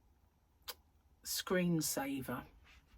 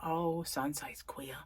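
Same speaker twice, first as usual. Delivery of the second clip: slow, hushed gossip whisper; 3 semitones lower, 6 dB quieter, slower than usual. Retold or imitated. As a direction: whisper it like a scandal. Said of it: "they're going about".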